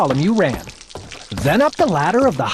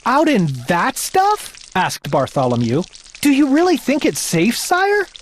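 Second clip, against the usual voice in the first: higher, uneasy questioning page; anxious boy; 6 semitones higher than usual. Acted. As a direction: ask timidly.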